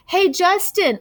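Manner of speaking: high, bright call across the yard. Acted. Emilio calling Justin from the tetherball court. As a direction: shout his name from the court. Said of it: "Emilio calls out".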